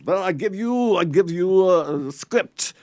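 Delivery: loud Preminger voice. Retold or imitated. Preminger handing over a script, loud slow bark. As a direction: boom it out like the director.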